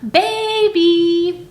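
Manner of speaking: put-on sing-out dog call, leaning on the BA of Baby. Shown as a demonstration. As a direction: call "Baby" like a dog's name, first syllable stressed. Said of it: "You're gonna call it like this".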